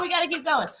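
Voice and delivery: soft half-crying whine; mock whimper. To viewers, rushing through readings, mock whimper. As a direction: fake a little sob. Panicking about the time left.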